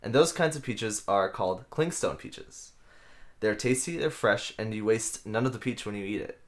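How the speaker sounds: upbeat commercial read, lightly done. Acted. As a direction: sell the peaches like a radio spot. Mock sponsor ad read.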